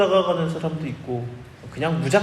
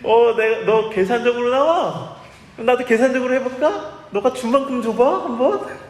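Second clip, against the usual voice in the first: higher, louder, teasing voice of God; God's mock reply; 5 semitones higher, 3 dB louder than usual. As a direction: answer the bargainer back in kind, playfully raised. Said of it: "그러면은 하나님께서".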